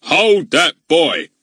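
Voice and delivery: slow, loud commanding shout; breathless command. A narrator's reading. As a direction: bark the order while puffing. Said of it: "commanded Mister Goon breathlessly".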